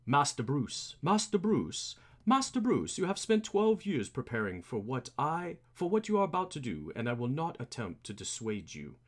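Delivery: lightly voiced formal butler; a hint of earnest butler; Alfred. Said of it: "I wish I had a voice".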